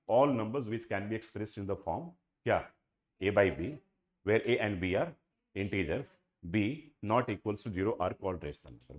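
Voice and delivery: relaxed speech-giving delivery, words spaced out; slow and easy. Shown as a demonstration. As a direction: lay it out calmly like a speech. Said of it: "कितना आराम आराम से बोलूंगा".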